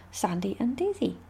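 soft unvoiced whisper. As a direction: whisper the names like a secret. Whispered intro of the duo.

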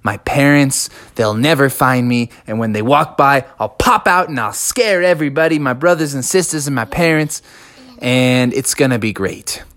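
a hint of a snickering cub in the bushes; giggling to himself. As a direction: savour the hiding spot with a giggle. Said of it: "started to laugh to himself".

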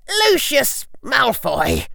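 slow, high icy call; cold firm voice. A narrator's reading. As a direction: ring out like ice. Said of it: "an icy voice rang out".

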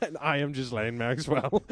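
silly newsreader voice through a laugh; playful put-on voice; Ghislaine Maxwell silly voice. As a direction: introduce yourself in a mock anchor voice. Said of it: "happens to have exactly the same silly voice".

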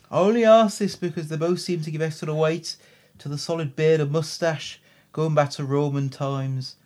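Brummie accent slipping into Liverpudlian; Birmingham accent attempt. Shown as a demonstration. Co-host reading listener's question in muddled Birmingham-Liverpool accent. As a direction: try Birmingham, drift toward Scouse. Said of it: "That's all more Liverpudlian".

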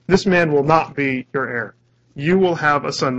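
firm stress on "man" and "will"; emphatic declaration. Retold or imitated. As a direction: declare it as God's firm promise. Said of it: "Look how he says it".

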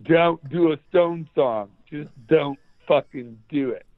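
emphatic warning in mock English accent; bad fake English accent. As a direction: order them in a dodgy English accent. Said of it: "really bad fake English accent".

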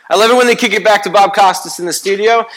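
eager fan hyping up Bob Costas; excited. Real, not acted. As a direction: say it again like a gushing fan. Excited repeat of the same line.

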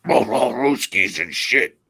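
loud, hammed-up Russian accent; mock Russian accent. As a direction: growl out a cartoonish Russian accent. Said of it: "Fuck the Russians".

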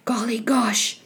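put-on whispered boyish wonder; soft murmur. Jack gazing at the golden tree, soft whispered murmur. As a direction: whisper it to yourself. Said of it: "He murmured softly".

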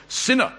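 "sinner" lifted as someone else's label; quote-marked SINNER. Acted. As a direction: put audible quote marks round "sinner". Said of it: "inverted commas".

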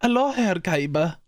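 a hint of a German accent greeting; lightly voiced German rival; mock German accent. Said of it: "German accent".

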